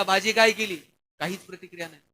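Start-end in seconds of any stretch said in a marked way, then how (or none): 0.0-0.8 calling out. Retold or imitated. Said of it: "यानं आवाज दिला".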